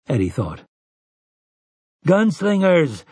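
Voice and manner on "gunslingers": shouted call. A narrator's reading. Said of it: "someone shouted".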